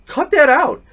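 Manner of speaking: loud, high "cut that out"; retold stern rebuke; sharp reprimand. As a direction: snap at her to stop. Coach tells off swearing parent.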